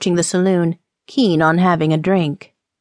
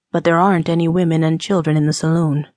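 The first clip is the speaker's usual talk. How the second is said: teasing man; 2 semitones lower, faster than usual. Acted.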